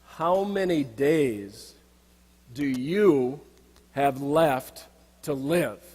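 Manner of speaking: a lightly voiced monk, slow and deliberate; a hint of a calm monk asking gravely; slow monk's question. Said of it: "asks me".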